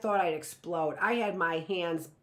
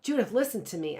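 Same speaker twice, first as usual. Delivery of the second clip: pleading; 4 semitones higher, 3 dB louder, faster than usual. Acted. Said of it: "I pleaded".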